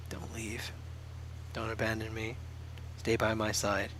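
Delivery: soft, barely voiced pleading; mumbling. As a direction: mumble it half asleep. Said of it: "Yunho still mumbled".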